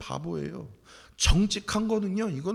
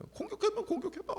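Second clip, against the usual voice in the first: much higher, light teasing dare; playful dare; 4 dB quieter than usual. Pretend. David cheerfully daring the wicked to attack. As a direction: tease them, nothing can hurt you.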